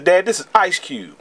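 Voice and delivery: a hint of a kid's voice; young son. Son telling Dad who the rapper is, lightly voiced child. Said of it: "seven, eight years old".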